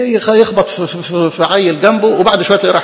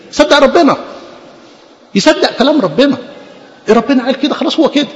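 fervent proclaiming; 7 semitones higher than usual. Real, not acted. Preacher proclaiming faith in God.

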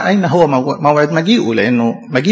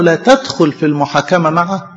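pleading cry; slower than usual. Acted. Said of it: "فداوود صرخ له".

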